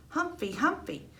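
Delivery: put-on high excited little boy calling Humphrey; toddler shouting. Derek rushing to the table, high excited toddler call. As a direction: squeal it like an eager toddler.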